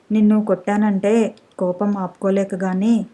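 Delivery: ordinary delivery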